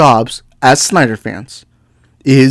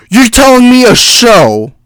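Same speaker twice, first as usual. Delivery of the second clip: slow, higher disbelief; you can't be serious; incredulous; 7 semitones higher, 5 dB louder than usual. Real, not acted. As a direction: stretch it out in disbelief. Incredulous rant.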